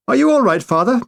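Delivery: high, startled concern; blurted in shock; stunned. Acted. Stunned officer asks.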